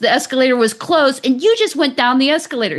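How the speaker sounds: angry stranger. Retold or imitated. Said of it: "He starts getting more and more angry".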